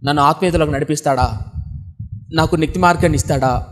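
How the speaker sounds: low, subdued pleading questions; imitated tearful doubt, pitched low; retold tearful questioning. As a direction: voice a weeping girl's doubts, lightly acted. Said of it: "అని ఏడుస్తుంది మరి ఎక్కువగా".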